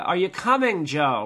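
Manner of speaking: calling up. Retold or imitated. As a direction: call up to a climber above you. Climber calls up to his partner.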